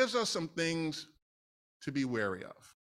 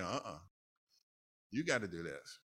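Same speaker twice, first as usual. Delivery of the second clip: lower, much softer, firm; the Lord insisting; 8 semitones lower, 10 dB quieter than usual. Retold or imitated. The Lord telling the preacher to preach it, soft and firm. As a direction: quietly settle it as God. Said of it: "and Lord, like".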